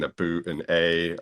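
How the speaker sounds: imitated Canadian "about" and "eh"; light mock-Canadian vowels; Canadian accent. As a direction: mimic a Canadian accent picked up on holiday. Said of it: "picking up a new accent".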